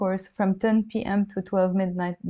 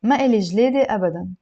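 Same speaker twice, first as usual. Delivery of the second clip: slightly brisker, firmer model reading; lively lesson reading; a little faster; 4 dB louder, much faster than usual. Shown as a demonstration. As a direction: read it more fluently for learners. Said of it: "I'll read it a little bit faster".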